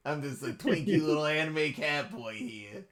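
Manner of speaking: playful anime cat boy impression. Player joking about the cat boy's voice, mock anime cat boy. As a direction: lightly put on a twinky anime cat boy voice. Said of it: "I would love that to be the voice".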